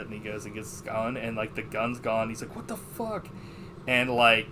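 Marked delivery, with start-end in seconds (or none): 2.6-3.3 retold disbelief. Retold discovery of missing gun.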